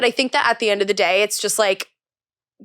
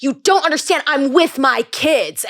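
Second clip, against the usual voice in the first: mildly heated, higher mock yell; imitated yelling; 4 semitones higher than usual. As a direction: act out a mother telling off a paparazzo, drawn out at the end. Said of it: "She's yelling at this guy".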